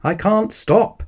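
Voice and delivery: high, slow panicked wail; panicked cry. A narrator's reading. Cyclist rolling toward the bear, panicked cry. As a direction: cry out helplessly. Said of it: "shouted the man".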